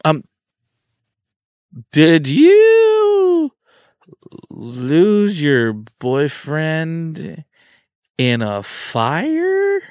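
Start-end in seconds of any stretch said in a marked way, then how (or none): 1.9-9.8 awkward blunt question. Retold or imitated. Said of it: "I didn't exactly say it with that inflection".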